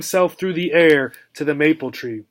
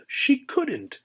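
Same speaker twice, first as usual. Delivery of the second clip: insistent echo; 9 semitones higher, 6 dB quieter than usual. A narrator's reading. Repeated, higher, softer.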